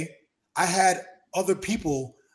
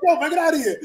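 mock shouting friend; 12 semitones higher, 8 dB louder, faster than usual. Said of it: "they're like".

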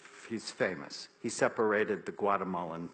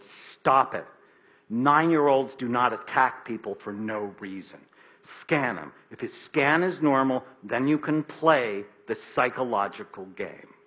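firm inner voice; 4 dB louder than usual. Retold or imitated. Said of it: "the rational voice in my head said".

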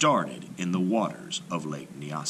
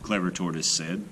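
sly greeting; 4 semitones higher, slower than usual. A narrator's reading. Tortoise greets hippo.

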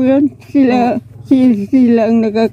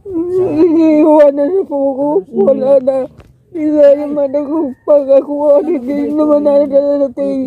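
crying; 4 semitones higher than usual. Real, not acted. Abandoned grandmother weeping.

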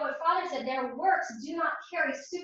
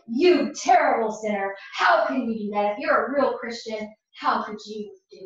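accusing enemy voice; 2 semitones lower, 4 dB louder than usual. Retold or imitated. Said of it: "That is the voice of the enemy".

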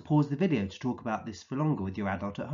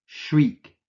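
mock shriek; 5 semitones higher, 7 dB louder than usual. Shown as a demonstration. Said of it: "a high-pitched scream of fear".

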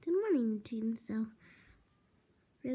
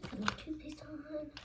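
quiet whisper; 6 dB quieter than usual. Real, not acted. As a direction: keep it hushed. Whispering while doing routine.

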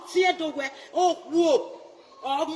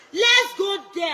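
slow, loud call to the crowd; slow rallying shout; 4 semitones higher, 4 dB louder, slower than usual. Real, not acted. Rallying fans to go to court, slow loud shout. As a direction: draw it out like a rally cry.

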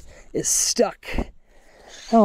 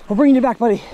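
hearty call to fish; 6 semitones higher, 6 dB louder, much faster than usual. Real, not acted. Hoisting fish back up.

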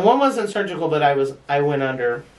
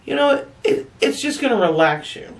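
airy nurse; 7 semitones higher than usual. Retold or imitated. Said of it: "She says".

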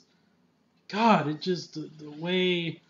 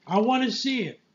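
mock Charles quote; 7 semitones higher, 6 dB louder than usual. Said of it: "He's like".

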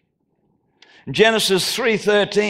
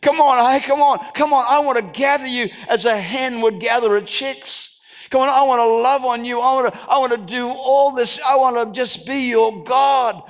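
God calling out; 3 semitones higher than usual. Pretend. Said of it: "as he would have said".

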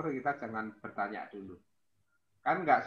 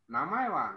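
"namae" with rising pitch; rising tune on namae; 4 semitones higher than usual. Shown as a demonstration. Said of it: "itu namae itu naik, nada naik ya".

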